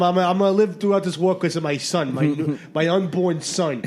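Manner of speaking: hint of a Brooklyn GI accent; Brooklyn soldier. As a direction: boast to your buddies in light Brooklyn voice. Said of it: "he's Brooklyn".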